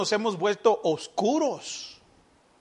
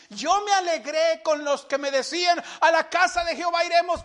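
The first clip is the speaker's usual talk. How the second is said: psalm recited high and exultant, the second half quicker; joyful recitation; 7 semitones higher than usual. Retold or imitated. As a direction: proclaim the verse with rising joy. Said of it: "Vea, vea el gozo, la alegría".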